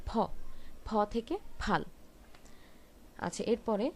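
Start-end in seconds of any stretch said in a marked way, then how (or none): 0.1-1.8 ফ said with both lips pressed together, then ফাল. Shown as a demonstration. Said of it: "দু ঠোঁট একসাথে করে বলবেন".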